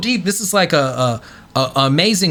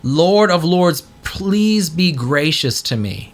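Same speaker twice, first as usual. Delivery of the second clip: solemn prayer; slower than usual. Retold or imitated. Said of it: "And he says".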